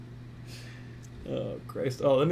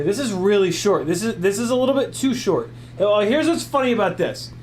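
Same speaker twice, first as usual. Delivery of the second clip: excited outburst; 4 semitones higher, 5 dB louder than usual. Acted. Excited parody review outburst.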